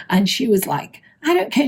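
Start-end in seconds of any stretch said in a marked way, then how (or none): 1.2-1.7 mock high-pitched retort; high voice mimicking someone cursing; irate older woman. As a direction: imitate an angry complainer, pitched well up. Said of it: "She was effing and blinding".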